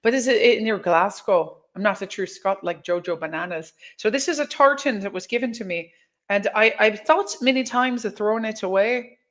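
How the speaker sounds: put-on Irish with a touch of pirate; Irish-pirate accent. Shown as a demonstration. Telling viewers about the gifted tartan in a put-on Irish accent. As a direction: keep up the Irish brogue. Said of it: "It was Irish with a pirate accent".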